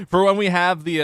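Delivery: high, loud megaphone announcement. Shown as a demonstration. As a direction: blare it like a megaphone. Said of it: "the megaphone voice like that".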